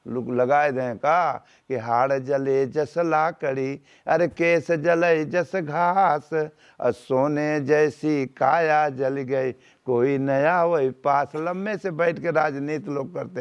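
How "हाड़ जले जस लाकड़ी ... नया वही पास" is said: slow, stretched recital of a couplet; verse recitation. Acted. Preacher reciting a verse on the burning body, slow recitation. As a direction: draw out each phrase of the verse.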